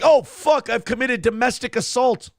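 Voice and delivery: shocked realization. Retold or imitated. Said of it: "you're like".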